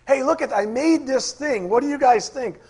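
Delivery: a hammed-up God showing off his work; God voiced. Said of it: "it's like God going".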